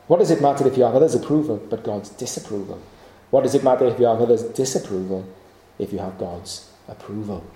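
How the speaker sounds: the quote again, rattled off fast. Shown as a demonstration. Preacher repeats the quote to the congregation, fast. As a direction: run it back quickly, as an emphatic repeat. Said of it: "You get that?".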